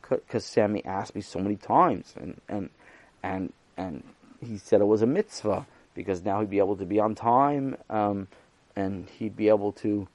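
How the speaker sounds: lightly voiced nervous schoolboy; timid boy. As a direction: stumble through it like a reluctant kid. Shy Nosson explains himself.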